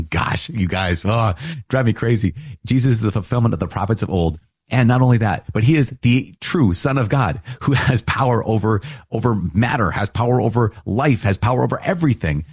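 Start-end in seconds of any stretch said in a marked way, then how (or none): 4.7-12.5 rising, higher, fervent insistence; soapbox passion. Real, not acted. Preacher to listeners, higher and fervent on Jesus' power. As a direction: climb higher with each claim of power. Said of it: "I'll get off my soapbox".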